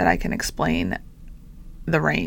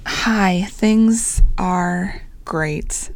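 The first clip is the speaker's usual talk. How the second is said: slow, drawn-out greeting lacking enthusiasm; unenthusiastic; much slower than usual. Real, not acted. Podcaster greets listeners at the episode's start, slow and unenthusiastic. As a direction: say it's great with no enthusiasm, taking your time. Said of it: "no enthusiastic or enthusiasm in my voice".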